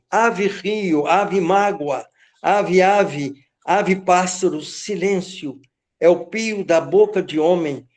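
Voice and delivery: measured, ceremonial poetry reading; poem recitation. Acted. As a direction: savor each word like an incantation. (declamação solene de poema)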